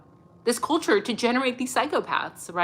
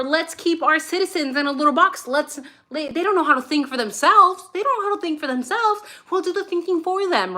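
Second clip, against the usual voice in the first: much higher mock-condescending voice; mocking controlling politicians; 8 semitones higher than usual. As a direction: sneer like a smug politician talking down.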